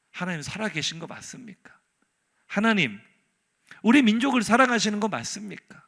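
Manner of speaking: acted accusing questions, building from restrained to loud; challenging God. Prophet confronting God over his people, accusing. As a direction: demand an answer, pressing harder each time. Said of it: "엘리야는 지금 하나님께 따지고 있어요".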